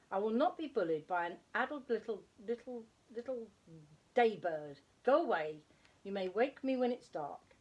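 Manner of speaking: loud, irritated scolding father; a cross dad who wants his sleep; grumpy father owl. Acted. Father owl scolds Plop for waking him, grumpy and loud.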